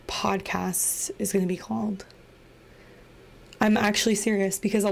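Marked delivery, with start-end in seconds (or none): 0.1-2.0 whisper. Real, not acted. Whispered teaser of podcast name.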